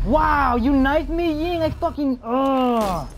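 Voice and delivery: yelling in shock, pitch shooting up; loud startled gamer yell; shouting orders over battle. Real, not acted. Knifed in a firefight.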